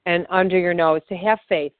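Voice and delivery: calm, steady guided affirmation read; guided tapping script. Acted. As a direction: lead the listener gently through each tapping point.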